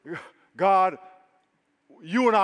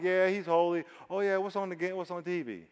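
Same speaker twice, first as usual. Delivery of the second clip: a casual, offhand "yeah he's holy" that trails softer; mock bored shrug; 5 dB quieter than usual. Pastor mocking half-hearted worship, bored and offhand. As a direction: toss it off like you're bored. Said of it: "It wasn't like".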